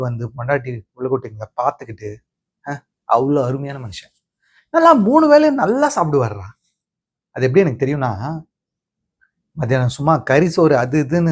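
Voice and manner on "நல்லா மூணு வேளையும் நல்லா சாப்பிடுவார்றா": high, emphatic brag, stretched out; gleeful boasting. Acted. Grandson brags about grandfather's hearty appetite, gleeful boasting. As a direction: boast with rising delight about his appetite.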